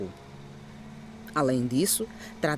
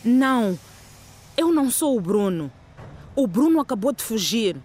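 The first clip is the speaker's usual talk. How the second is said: breathless, louder panicked denial; out of breath; 3 semitones higher, 4 dB louder than usual. Acted. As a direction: gasp it out, out of breath. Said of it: "sem fôlego".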